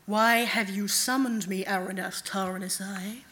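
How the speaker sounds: lightly voiced night god, slow and measured. Night god asks servant why she was summoned, slow and measured. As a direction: take your time, like a god receiving a servant.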